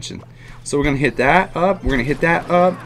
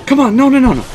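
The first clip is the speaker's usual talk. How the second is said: high, loud desperate no's; real frustrated shout; 11 semitones higher, 8 dB louder, faster than usual. Real, not acted. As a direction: yell it as the tower falls. Losing the tower in a game.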